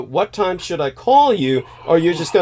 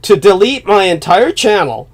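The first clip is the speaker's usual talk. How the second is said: alarmed; 6 semitones higher, 11 dB louder than usual. Real, not acted. Alarmed rant about channel deletion.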